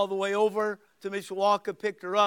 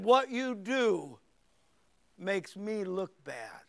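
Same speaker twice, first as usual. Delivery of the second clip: slow grave rebuke; much slower than usual. Retold or imitated. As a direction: let each word weigh.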